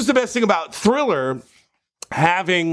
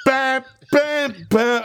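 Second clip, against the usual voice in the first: mock rock scream; 6 semitones higher, slower than usual. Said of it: "he screams it to everybody".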